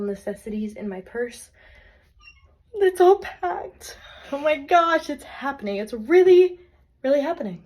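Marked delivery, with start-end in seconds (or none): 2.7-7.6 high, loud and thrilled; giddy disbelief, voice jumping up; excited. Real, not acted. Leaving home, final box packed.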